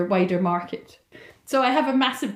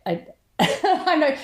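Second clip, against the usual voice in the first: laughing agreement; 7 semitones higher, much slower than usual. Retold or imitated. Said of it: "And I was like".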